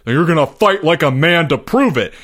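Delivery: heated, forceful taunt; heated challenge. A narrator's reading. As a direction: throw down the challenge. Heated quarrel between the boys.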